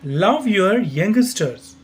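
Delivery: slow, careful teacher's model reading; slow model sentence. Shown as a demonstration. Teacher slowly models the sentence for learners. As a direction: say each word slowly so students can copy. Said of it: "इसका pronunciation यहाँ से आप याद कर सकते हैं".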